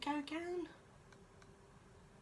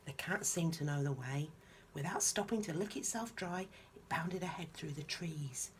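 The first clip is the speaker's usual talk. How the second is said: bright storybook reading voice; gentle bedtime story reading; story narration. A narrator's reading. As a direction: read it like a picture book to a child. Reads picture book aloud.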